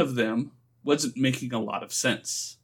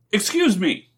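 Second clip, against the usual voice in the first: higher-pitched, restrained call for attention; mild shout; 8 semitones higher, 4 dB louder than usual. A narrator's reading. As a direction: call out without a full shout. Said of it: "he shouted".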